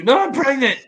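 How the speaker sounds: high, loud frantic woman's voice; panicked plea. Retold or imitated. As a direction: squeal it out in panic. Acted quarrel, Love pleading.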